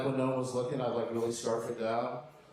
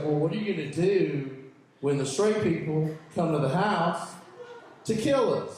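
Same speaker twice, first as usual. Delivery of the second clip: mock-grave, louder delivery; serious husband; 3 semitones higher, 4 dB louder than usual. Husband warning about straight people, mock serious. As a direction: voice a lightly acted earnest warning. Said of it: "he got all serious".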